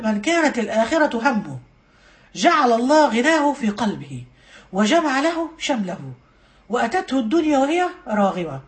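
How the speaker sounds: slow, measured recital; hadith recitation. Real, not acted. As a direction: recite it phrase by phrase, with pauses.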